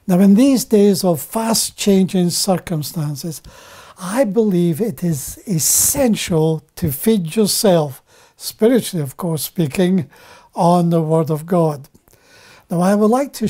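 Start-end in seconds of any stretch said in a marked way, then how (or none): none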